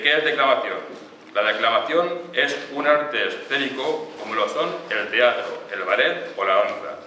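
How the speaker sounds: measured, lightly declamatory lecture reading; reading a definition aloud. Acted. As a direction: read it out formally, phrase by phrase. Reads a definition from manual. (lectura formal en voz alta)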